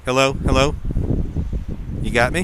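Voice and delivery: muffled behind a face mask; through a face mask. Real, not acted. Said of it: "hear me through the mask".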